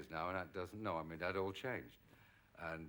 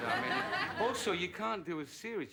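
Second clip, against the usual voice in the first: laughing; 10 semitones higher, 7 dB louder, slower than usual. Real, not acted. Laughs at own quip.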